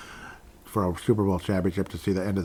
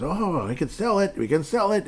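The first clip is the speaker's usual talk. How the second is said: mock greedy seller; 9 semitones higher than usual. Mocking the team's money grab.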